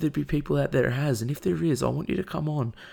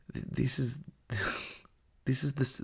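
disbelieving laugh; 6 dB quieter than usual. Real, not acted.

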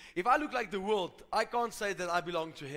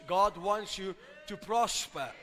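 God wants you to prosper, slower and weightier; slow emphatic repeat; slower than usual. Shown as a demonstration. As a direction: lean on every word, slow it down. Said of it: "I said this".

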